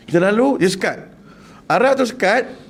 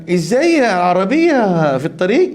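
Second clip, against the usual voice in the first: Arab man asking; 2 semitones higher, much slower than usual. Retold or imitated. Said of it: "Arab tanya".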